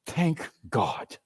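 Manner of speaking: a soft relieved murmur; softly whispered. Acted. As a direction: breathe it out quietly. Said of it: "softly whispering".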